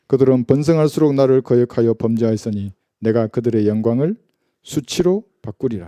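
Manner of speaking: measured, formal Bible reading aloud; scripture reading. A narrator's reading. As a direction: read the verse out firmly and solemnly.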